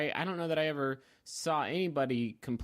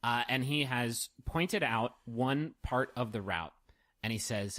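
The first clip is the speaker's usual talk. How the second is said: slow, deliberate scene setting; game master narration; 4 semitones lower, slower than usual. A narrator's reading. Game master pointing players to the route, in slow narration. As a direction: pace it out for the players.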